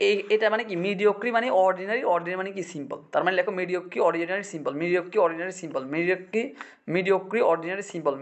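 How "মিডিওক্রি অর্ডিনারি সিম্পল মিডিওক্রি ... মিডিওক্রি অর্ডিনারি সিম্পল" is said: rote recitation of a word list; like drilling vocabulary at morning study; memorization drill. Shown as a demonstration. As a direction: recite it in a steady repeating loop. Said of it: "এভাবে পড়বা".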